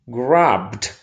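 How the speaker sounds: "grabbed" with the ED said as D; final D sound. Shown as a demonstration. Teacher giving an example of ED after B, final D sound. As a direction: end "grabbed" on D, no extra syllable. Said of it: "we pronounce D".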